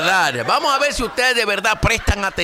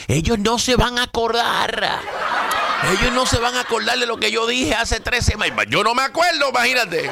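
higher, lightly mocking president's voice; imitating the president; 5 semitones higher than usual. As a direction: mimic a president counting on forgetfulness. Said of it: "parece que a él se le olvida". (imitando al presidente en tono burlón, más agudo)

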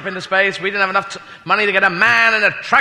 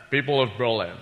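a hint of Sean Connery playing the president; Sean Connery doing Kennedy; 3 semitones lower than usual. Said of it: "Sean Connery doing, uh, President Kennedy".

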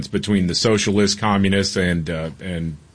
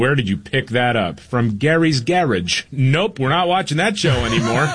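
mock parental scolding; 4 semitones higher than usual. Dad retelling scolding his son.

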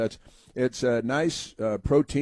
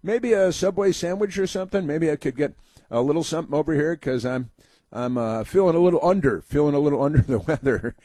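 mock inmate voice; 3 semitones higher than usual. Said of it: "she said".

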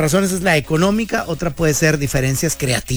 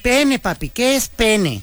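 lightly voiced little girl; 5 semitones higher, slower than usual. Girl repeats her question.

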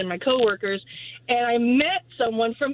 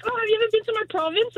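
British man; 11 semitones higher, much faster than usual. Retold or imitated. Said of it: "He was like".

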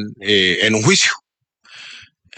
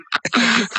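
sassy drag queen laugh; 10 semitones higher, 4 dB quieter than usual. Acted. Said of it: "le sale bien esa voz de drag queen".

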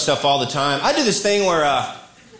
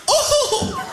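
mock surprise. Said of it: "Turn to Wheel of Fortune".

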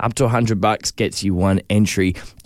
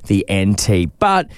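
sexy voice; 3 semitones lower than usual. Acted. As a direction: purr it like a seductive ad. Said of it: "I've got my sexy voice on".

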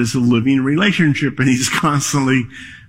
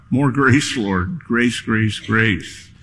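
quiet prayer; slower than usual. Retold or imitated. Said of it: "my constant prayer".

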